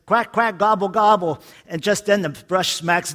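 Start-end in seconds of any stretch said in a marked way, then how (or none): 0.0-1.4 slightly raised, hammy mock shout from the ladder; light mock yell of bird noises. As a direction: call it down like a half-hearted warning. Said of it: "he yells down".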